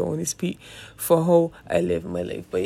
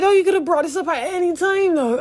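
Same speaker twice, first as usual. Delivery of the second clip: mock exasperated retort; 11 semitones higher, 5 dB louder than usual. Retold outrage at the doctor.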